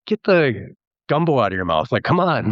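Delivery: high, mock-frustrated plea; hammed-up annoyed viewer; exasperated. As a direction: tease a mumbler to speak up.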